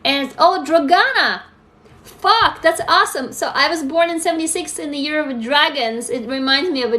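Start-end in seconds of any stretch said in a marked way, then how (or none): 0.4-1.4 excited. Real, not acted. Excited at a viewer's name. 2.0-3.3 high, loud burst of delight; genuinely delighted outburst; thrilled. Real, not acted. Thrilled reaction to viewer.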